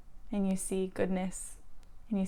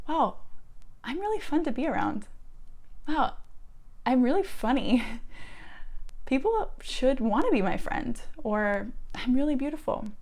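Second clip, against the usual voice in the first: delighted self-praise; 4 semitones higher than usual. Retold or imitated. Voicing the new loving inner voice.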